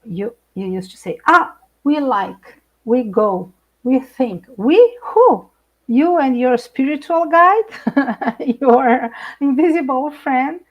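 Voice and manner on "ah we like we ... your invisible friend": mock quote. Retelling partner mocking "we.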